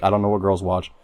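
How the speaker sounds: lightly voiced valley girl. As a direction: tell it like a ditzy valley girl. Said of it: "Can you talk in a white girl voice?".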